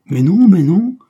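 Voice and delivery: sudden high shout of protest; cry. A narrator's reading. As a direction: cry it out, stopping her leaving. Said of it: "cria Claude". (Claude crie pour la retenir, très fort)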